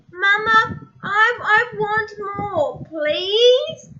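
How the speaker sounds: polite request. Acted. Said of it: "instead of yelling".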